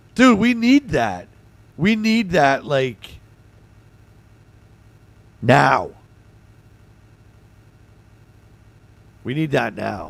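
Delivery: rough, hoarse, gravelly, worn-out voice. Streamer whose voice is going, reacting to a chat tip about an extension, hoarse gravelly voice. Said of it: "I sound like a singer".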